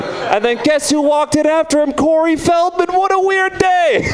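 high-pitched, over-the-top amazement; hammed-up squeal of wonder at nothing; mock excitement. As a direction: gush it like astonishing news. Mock telling of trivial weird day.

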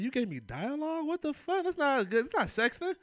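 high indignant outburst; shocked, shouted disbelief; outraged disbelief. Retold or imitated. Outraged reaction to her dialogue.

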